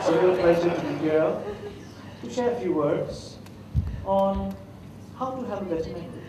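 mock dull lectern speaker, soft and droning; a hint of a tired speech-giver going through the motions; stiff boring speaker. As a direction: lightly imitate a bored podium speaker. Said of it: "the guy was talking like this".

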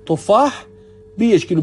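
تفاح rising, then بیش کیلو said clearly; slow clear Arabic example. Shown as a demonstration. Teacher repeating the market example, تفاح then بیش کیلو clearly.

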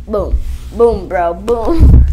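big loud playful boom. Acted. Kid hamming a loud boom for the camera. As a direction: shout the boom for fun. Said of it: "playful boom".

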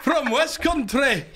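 put-on West Country accent, slow and broad. Cliff introducing himself to the hosts, slow West Country accent. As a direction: play a yokel from the West Country. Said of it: "you sound like you're from Yorkshire".

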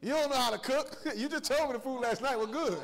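hammed-up husband blowing up; husband mid-argument insulting his wife, hammed up; mock angry insult. Acted quarrel insulting wife.

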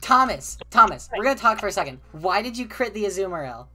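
playful loud scolding of a teammate; mock scolding. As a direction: call him out like an angry parent, half joking. Scolding teammate over bad play.

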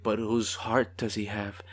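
soft breathy whisper, conspiratorial; whispered musing to the viewers. Real, not acted. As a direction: lean in and whisper it. Musing in hushed aside.

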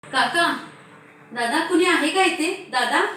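calling out loudly at a closed door. Acted. Girl calls at a door at night. (घाबरून जोरात हाक मारणे)

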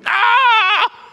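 high, loud whoop of laughter; laughing shout. Retold or imitated. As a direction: burst out shouting with glee. Laughing shout at fail video.

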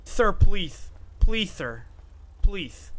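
loud, begging cries; desperate pleading shout. Acted. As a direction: beg for mercy at full voice. Begging prisoner in cell.

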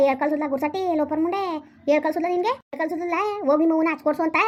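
a raging mother tearing into her son; a mother shouting abuse at her son who told her to sit outside; angry yelling. Acted. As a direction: scold him at the top of your lungs. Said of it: "ಗಂಟ್ಲು ಹರ್ಕೊತೈತಿ".

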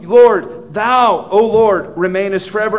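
thundering proclamation. Acted. Preacher proclaiming God's eternal throne to his church, booming. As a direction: shout the promise like a herald.

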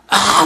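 mild imitation of a startled scream; mock scream. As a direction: let out a long, high mock shriek without volume. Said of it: "이렇게 소리를 지릅니다".

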